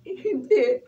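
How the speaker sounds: loud, high indignant no; loud upset denial about the hit-and-run. Acted. Answering in upset.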